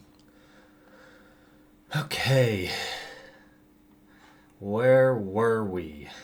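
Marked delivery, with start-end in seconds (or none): 2.0-6.1 slow, raspy voice. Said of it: "Extra raspy for the time being".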